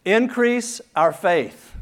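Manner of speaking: high, loud and slow plea; an earnest mock plea; pleading disciples. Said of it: "They say".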